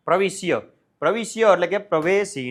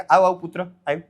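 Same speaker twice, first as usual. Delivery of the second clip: warm welcome; 4 dB louder than usual. Acted. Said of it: "દાદાજી એને આવકારો આપે છે".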